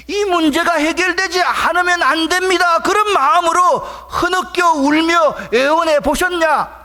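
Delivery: loud, high-pitched exhortation from the pulpit; impassioned preaching. Real, not acted. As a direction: cry out to the congregation at full force. Preaches at full force.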